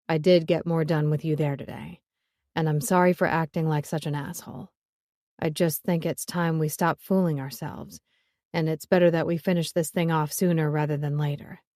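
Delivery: a hint of a weary man; lightly voiced man. Joe apologizes, then pulls away.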